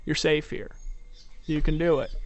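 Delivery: soft, calm coaxing; gentle reassurance. Retold or imitated. Hand on her back, calming her softly. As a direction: reassure her she's safe. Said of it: "I said".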